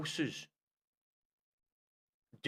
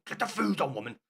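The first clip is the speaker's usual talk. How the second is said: barking order, much louder at the end; mock chauvinist yelling for dinner; mock bossy husband; 3 semitones higher, 14 dB louder than usual. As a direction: play a bossy husband demanding his food, ending in a shout. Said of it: "I wasn't saying".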